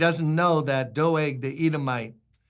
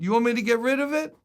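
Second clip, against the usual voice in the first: street man's voice; 8 semitones higher, 3 dB louder, faster than usual. Retold or imitated. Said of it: "And he said".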